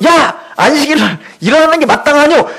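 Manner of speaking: mock indignant shout; accusing shout. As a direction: challenge him like a scolding elder. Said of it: "그 유대인들이 막 따집니다".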